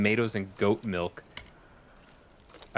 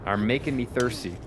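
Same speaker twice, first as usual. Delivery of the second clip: drawn-out sitcom line; 2 semitones higher, 4 dB quieter than usual. Acted. Famous sitcom line, acted slow.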